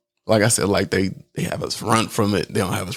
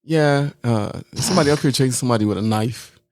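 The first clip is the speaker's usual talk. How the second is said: lightly imitated calm, matter-of-fact radio report; calm dispatcher. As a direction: report it casually, brisk and unbothered. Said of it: "he's talking so calm".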